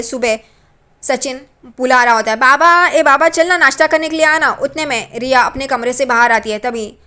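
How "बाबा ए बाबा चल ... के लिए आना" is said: louder call across the house; raised voice calling father to breakfast. Retold or imitated. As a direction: call dad to come eat.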